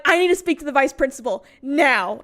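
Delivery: acted-out demand landing hard on the last word; retold angry demand. Upset student demanding the vice principal, angry. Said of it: "I'm so angry".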